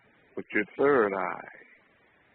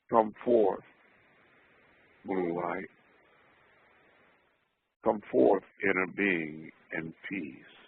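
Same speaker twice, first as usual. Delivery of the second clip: strong conviction. Shown as a demonstration. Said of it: "in strong conviction".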